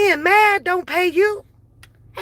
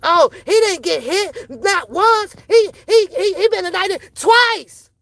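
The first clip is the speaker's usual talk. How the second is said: mocking them; 3 semitones higher than usual. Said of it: "I heard them say".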